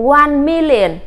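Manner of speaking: one million read slowly and clearly with MIL stressed; English model reading. Shown as a demonstration. Teacher reading one million aloud for her class. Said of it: "các em đọc là".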